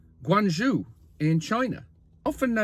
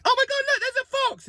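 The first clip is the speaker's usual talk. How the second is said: much higher, squealing mock excitement; mock amazement. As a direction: gasp it like a tourist seeing a fox. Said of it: "It's not like".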